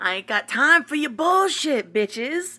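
very loud, brash, high put-on New York accent. In a casual chat, declaring it in a fake New York accent. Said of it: "a New York accent".

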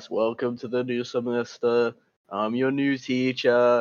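mock lifeless, low, flat, dead monotone drone. Imagining Miyamura walking into class as the new teacher: monotone dead voice. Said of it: "You can tell by my monotone dead voice".

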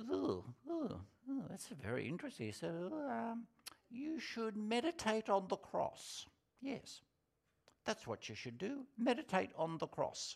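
very high, odd, quirky little voice. Retelling advice from an introvert man with insight into the Bible, imitating his quirky little voice. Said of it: "in his quirky little voice".

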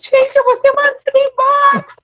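very loud, high, shrill excited shout. Retelling their reaction when their boss called them over, retelling an excited shout. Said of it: "Comecei a gritar".

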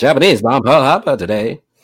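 put-on high, old-time radio announcer voice. Talking about bringing back radio plays, show a co-host a high-pitched radio voice. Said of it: "High pitch voice like this".

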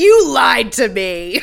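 loud, very slow, drawn-out, accusing yell. Retelling how Olivia confronts the wife: imitating Olivia yelling. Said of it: "yelling at Stephen Danzig's wife".

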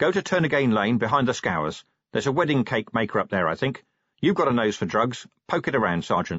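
ordinary delivery

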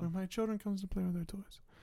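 fading almost to nothing, near-silent, slightly high. Repeating a movie line, imitating Michael Corleone almost not talking. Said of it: "he almost isn't talking at the end".

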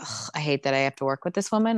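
low, fed-up, annoyed grumble with an ugh. Retelling how she looked annoyed the whole time: imitating an annoyed complaint. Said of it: "She just looked annoyed the whole time".

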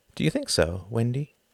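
kindly, mild, gentle voice. A woman turns the question to another woman: gentle question. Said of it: "asked Ruth gently".

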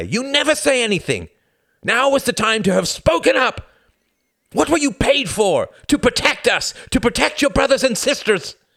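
very high, shrill, raging, furious shout. A mother turns on her son and pushes him away: shouting. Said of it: "she shouted".

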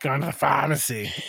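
put-on thick Boston accent. Echoing a nurse's line: imitating Nurse Deb's Boston accent. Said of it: "that thick Boston accent".

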